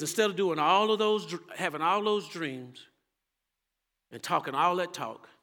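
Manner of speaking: loud, fervent quoting at full force; preacher's call, booming and slowed; preaching shout. Acted. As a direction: thunder it out at the congregation.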